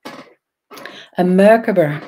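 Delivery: Merkaba said slowly and loudly, mɛɹkəbə; slow, loud, deliberate Merkaba; careful pronunciation. Shown as a demonstration. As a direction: stretch out Merkaba, clearly stressing MER. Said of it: "Maybe I'm not pronouncing it right".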